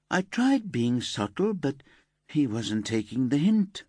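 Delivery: put-on sulky teenage girl. Elsa confesses to detectives.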